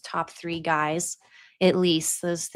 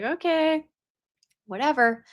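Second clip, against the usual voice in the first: dismissive mom; 8 semitones higher than usual. Retold or imitated.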